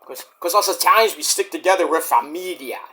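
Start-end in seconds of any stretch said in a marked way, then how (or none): 1.9-2.8 whisper. Real, not acted. Italian pride aside.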